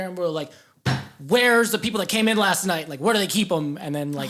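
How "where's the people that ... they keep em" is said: imitating a pushy, aggressive mom; higher, mock-aggressive questioning; aggressive demand. Aggressive friend demanding answers at the hospital, mildly hammed-up. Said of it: "like, aggressive".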